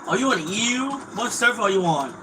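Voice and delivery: high, loud taunting questions; mocking high yell. Real, not acted. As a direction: yell up at him like you're mocking. Taunting opponent in game chat.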